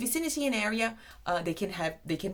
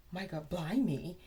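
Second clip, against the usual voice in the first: shocked. Shown as a demonstration. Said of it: "when you say blimey".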